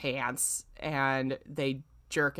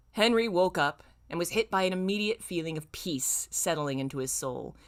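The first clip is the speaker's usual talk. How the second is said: story reading. Acted. Streamer reading fanfic to chat in a plain narrator voice. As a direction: evenly read fanfic narration. Reads fanfic passage aloud.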